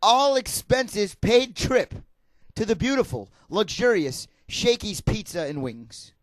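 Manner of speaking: slow game show prize pitch; booming prize announcer. Pretend. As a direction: sell the prize like a host.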